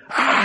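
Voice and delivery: short, breathy mock scream. God over you going "Ah", mock scream. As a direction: let out a brief pretend scream. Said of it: "screaming at you and stuff".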